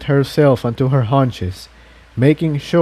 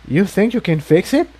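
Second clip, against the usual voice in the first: Incendia; 6 semitones higher than usual. A narrator's reading. Incendia voiced in story.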